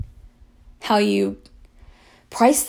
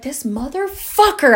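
higher, slow exasperated curse; retold indignation, pitched up; retold anger; 6 semitones higher, slower than usual. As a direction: draw out the curse, mad. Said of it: "I was so mad".

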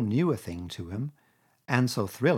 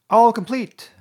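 much higher, louder, triumphant; triumphantly; 11 semitones higher, 12 dB louder, slower than usual. A narrator's reading. Toad showing off the stocked caravan, triumphant. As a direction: crow over it. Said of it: "said the Toad triumphantly".

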